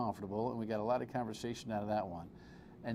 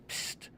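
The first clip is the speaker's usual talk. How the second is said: psst; 6 dB quieter than usual. Retold or imitated. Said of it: "The next day it's like".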